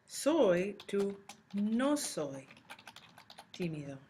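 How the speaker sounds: slow, carefully spelled-out soy to no soy; teacher stretches each word so students catch the change; slow teaching voice. Shown as a demonstration. Teacher modelling the fix for students, slow and careful. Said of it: "we change".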